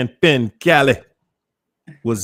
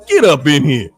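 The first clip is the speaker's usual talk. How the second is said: calling them in; 4 dB louder than usual. Shown as a demonstration. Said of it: "You gotta say".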